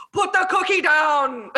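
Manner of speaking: said slowly, quoting the movie; slow, deliberate movie line; slow quoted line. Retold or imitated. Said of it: "my favorite line of the whole movie".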